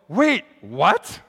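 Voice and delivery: puzzled "Wait, what?" rising; a hammed-up double take; mock surprise. Shown as a demonstration. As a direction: act baffled, half-joking.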